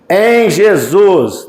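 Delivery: usual speaking voice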